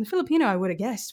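self-mocking bad Australian accent; really bad Australian accent. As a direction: put on a bad Aussie manager voice. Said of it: "I'm gonna, uh, do a really bad accent".

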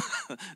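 short, soft imitated chuckle; mock chuckle. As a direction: chuckle briefly as if at a joke. Buyer laughs off the coffee charge.

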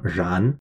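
然 with a rising second tone. Shown as a demonstration. Teacher models 当然 for learners, 然 in rising tone. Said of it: "R A N in the second tone".

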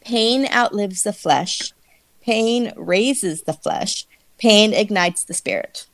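slow, grave recitation; solemn slow reading. Shown as a demonstration. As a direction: read each line slowly and gravely. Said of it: "it translates to".

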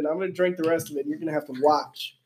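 slurping water while talking. Real, not acted. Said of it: "Stop slurping the water".

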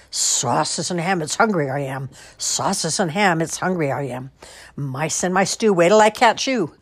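lightly voiced purring singsong; purring cook's voice. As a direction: croon it menacingly. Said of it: "a strange voice purring loudly".

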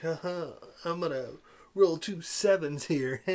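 lightly mocked cheesy gambler; cheesy guy. Reviewer mimics the old Hollywood casino guy, mildly cheesy. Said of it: "just the cheesiest guy ever".

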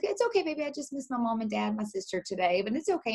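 soothing mommy voice. Retold or imitated. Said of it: "And I was like".

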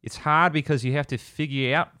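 put-on Australian accent, vowels bent; Australian accent demo. Shown as a demonstration. Host shows a friend how Australian vowels go, Australian accent. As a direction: show off Australian vowels, lifting the ending. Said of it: "it's kinda like this though".

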